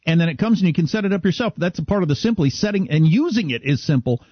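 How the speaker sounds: upbeat sponsor read, pitch lifted. Real, not acted. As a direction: sell it like a radio host's live ad. Reads home security sponsor ad.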